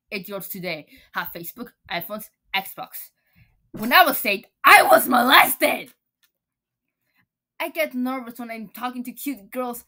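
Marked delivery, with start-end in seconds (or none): 3.7-5.9 loud, slowed-down outburst; shouted overshare; blurted confession. Acted.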